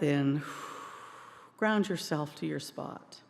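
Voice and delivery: measured prayer with spaced phrases; spoken prayer. Real, not acted. Minister to congregation before singing, measured prayer. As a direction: lead the room gently in prayer, pausing between phrases.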